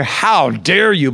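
slow, drawn-out mock rebuke; understated scolding, very slow. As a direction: stretch each word in indignant reproach. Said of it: "so he scolds them".

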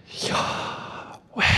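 "Yahweh" as pure breath, inhaled and exhaled, no voice; breathed pronunciation. Shown as a demonstration. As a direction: breathe "Yahweh" slowly, one whispered breath per syllable. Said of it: "He breathed on them".

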